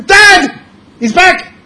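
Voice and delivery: put-on high, loud joyful kids' shout; excited kids. Kids seeing their long-lost father, high excited shout. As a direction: squeal it like children seeing dad come home.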